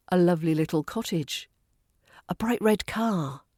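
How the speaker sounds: main stress on "cottage" and "car"; stress on final noun. Shown as a demonstration. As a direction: let the adjectives lead up to a stressed "cottage" and "car". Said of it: "The final noun takes the strongest stress".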